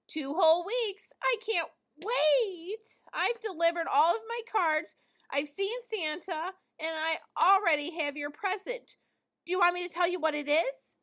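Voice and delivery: a big bird who can't wait; eager Big Bird. Acted. Big Bird tells Granny on phone.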